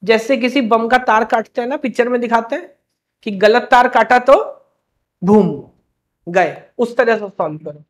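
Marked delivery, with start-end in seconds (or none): 5.2-5.5 short, low mock boom; one-word blast sound effect; imitated explosion boom. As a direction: drop a quick "boom" for the bomb. Imitates a film bomb exploding.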